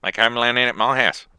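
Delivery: lightly voiced South African accent; a slightly mangled South African accent. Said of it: "He sounds Australian 'cause I don't know how to do South African accent".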